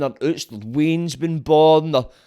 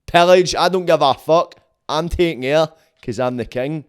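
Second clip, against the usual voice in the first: a lightly voiced warlord king barking orders, louder; mock king's orders; 4 dB louder than usual. King ordering his generals to invade, mock commanding and louder. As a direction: play the brutal old king laying down the law. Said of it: "You told the fucking generals to tell the soldiers".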